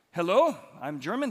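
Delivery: half-hearted mock German accent; terrible German accent. Preacher voicing the German passenger's greeting, poor German accent. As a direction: badly attempt a German accent, lightly. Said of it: "That's my terrible German accent there".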